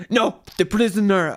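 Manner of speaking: terrible put-on accent for a stern soldier; Grey Worm's accent, badly faked. Podcaster retelling the scene where the throne is given, badly faked accent. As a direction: attempt a foreign fantasy-soldier accent, badly.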